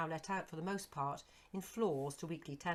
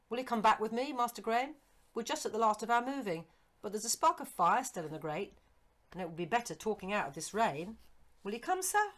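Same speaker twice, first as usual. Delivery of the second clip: high, loud, eager servant's voice; eager old servant; 5 semitones higher, 7 dB louder than usual. Acted. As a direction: pitch up as the startled, fond old retainer. Servant William's voice.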